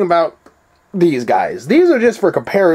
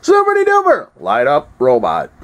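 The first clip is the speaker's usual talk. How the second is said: jingle voice; 4 semitones lower than usual. Acted. Echoes the jingle line.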